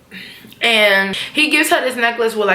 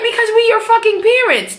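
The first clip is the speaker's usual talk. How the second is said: mock Tasha; 10 semitones higher than usual. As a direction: snap it like an angry mother. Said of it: "She like".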